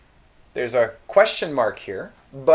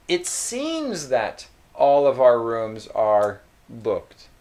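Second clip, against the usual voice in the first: slow, gentle "It seems that" hedge; a touch softer, hedged delivery; softened bad news; 4 semitones lower, slower than usual. Shown as a demonstration. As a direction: ease the customer into it. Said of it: "this makes it a little bit softer".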